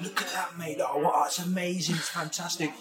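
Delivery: gush, then dither, imitating an indecisive mate; lightly mimicked overexcited diner; imitated excitable friend. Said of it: "And then he's on Google and he's".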